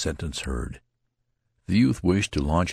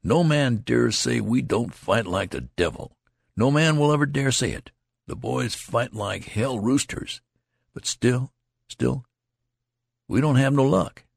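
higher, firm insistence; stern; 8 semitones higher than usual. A narrator's reading. Friend defends the boys' fighting, sternly. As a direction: insist sternly, building force. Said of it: "the friend's voice was stern".

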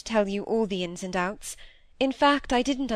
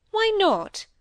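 sharp, higher retort; 9 semitones higher than usual. A narrator's reading. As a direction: snap it back defiantly. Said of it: "said Cynthia, sharply turning round".

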